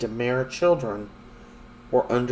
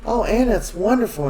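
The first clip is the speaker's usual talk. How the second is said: mock delighted congratulations, lifting in pitch; imitated put-on wonder; pretending to believe; 5 semitones higher than usual. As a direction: gush gently as if you believe her. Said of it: "he's acting like he believes her".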